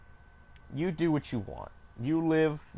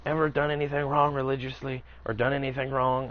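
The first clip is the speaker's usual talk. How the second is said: put-on higher-pitched Puerto Rican accent, preachy; the devout coworker in a Puerto Rican accent, higher; 6 semitones higher than usual. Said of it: "very thick Puerto Rican accent".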